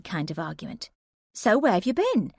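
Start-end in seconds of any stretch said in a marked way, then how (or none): 1.3-2.3 higher, insistent question; pressing friend. Acted. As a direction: press her for the truth.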